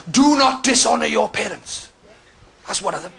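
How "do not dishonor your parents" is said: solemn commandment. Pretend. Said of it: "It says".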